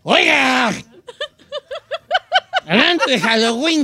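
put-on slurred drunk voice; town drunk. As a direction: drunkenly call out. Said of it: "habla como borracho".

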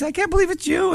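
soft, very high falsetto gush; light mock falsetto; a singer's high falsetto. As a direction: imitate an awed little voice up in falsetto. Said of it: "it's this really high falsetto voice".

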